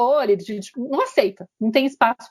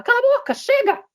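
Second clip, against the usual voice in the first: sudden high outburst, cut her off; father shouting down his wife for the first time; father snapping; 14 semitones higher than usual. Retold or imitated. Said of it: "Pela primeira vez o pai fala".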